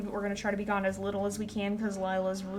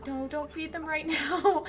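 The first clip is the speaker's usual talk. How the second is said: laughing; 7 semitones higher than usual. Real, not acted. Laughing at wolves feeding at night.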